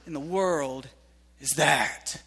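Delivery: soft, puzzled question to God; hushed bewildered prayer; baffled prayer. Retold or imitated. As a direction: ask God softly, confused. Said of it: "find yourself saying".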